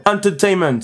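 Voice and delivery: English word in a put-on English accent. Shown as a demonstration. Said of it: "Vous avez vu mon, mon accent?". (accent anglais appuyé)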